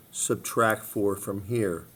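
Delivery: walk students through slowly; slow, deliberate repeat. Shown as a demonstration.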